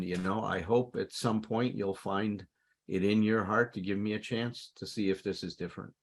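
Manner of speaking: low, understated, earnest apology; sincere amends. Acted. Speaker models making amends to someone distrustful, sincere. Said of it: "with that level of sincerity".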